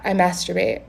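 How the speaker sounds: "I masturbate" said flat and matter-of-fact, no shame; deadpan blunt delivery. Shown as a demonstration. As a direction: say it like it's nothing. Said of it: "He says it just like that".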